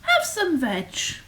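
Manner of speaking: lightly hooted storybook invitation; friendly hoot. A narrator's reading. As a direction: hoot it as a welcome. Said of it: "And they hooted".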